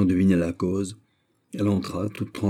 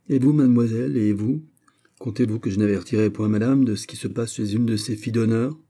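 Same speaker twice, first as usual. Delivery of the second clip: sharp, raised scolding voice, pitched high; angry scolding; 3 semitones higher than usual. Acted. Old lady scolds the maid of honour, angry and raised. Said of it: "Sa colère était trop grande".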